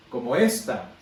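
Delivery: "como esta" with the weight on the E of "esta"; stress on ESta. Shown as a demonstration. Teacher showing a third meaning by moving the accent, stress on ESta. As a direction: say "como esta", punching "ES" and dropping "ta". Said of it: "le pongo el acento no en la A, sino en la E".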